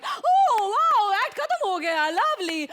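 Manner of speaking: a big thrilled squeal; delighted judge shriek; gushing oh. Acted.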